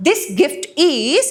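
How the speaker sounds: "This gift is" stretched right out; teacher reads the example line slowly. Shown as a demonstration. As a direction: draw out each word of "This gift is". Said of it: "నీ కొరకు అని చెప్తున్నాను".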